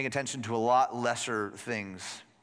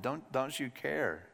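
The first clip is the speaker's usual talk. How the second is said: quiet slow echo; 6 dB quieter, slower than usual. Shown as a demonstration. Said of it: "The one who has been out".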